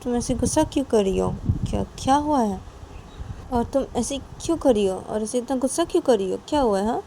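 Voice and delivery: puzzled questioning. Acted. Friend asks Nisha why she's so angry, puzzled. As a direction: press her for the reason, voice lifted.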